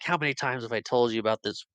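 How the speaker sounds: mock scolding, rising at the end; playful put-on exasperation; fake mad. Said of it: "he does that fake mad thing".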